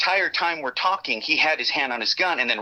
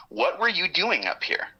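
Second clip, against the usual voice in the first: slow, deliberate delivery, pitched higher; slow questioning; 6 semitones higher, slower than usual. Retold or imitated. Agent questioning a man found up here, slow and deliberate.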